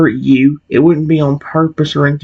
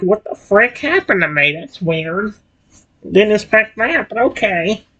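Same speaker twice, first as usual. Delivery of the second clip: high-pitched, shocked, confused cartoon creature voice; 6 semitones higher, 3 dB quieter than usual. Acting out a shocked Croconaw after merging: Croconaw voice. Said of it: "Croconaw's voice is the most fun to mimic".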